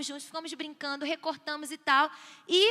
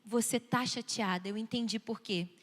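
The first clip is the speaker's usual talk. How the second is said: lower, gentle understanding voice; validating parent; 3 semitones lower than usual. Shown as a demonstration. Parent validating child's sadness over moving, gentle low voice. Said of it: "E validar".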